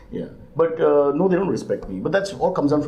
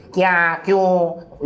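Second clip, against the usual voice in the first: put-on sharp, higher Hindi-accented Kya kyun; maid's strong Hindi accent; 6 semitones higher than usual. Mimicking the house maid to the interviewer, strong Hindi accent. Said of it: "has this very strong accent and talks like this".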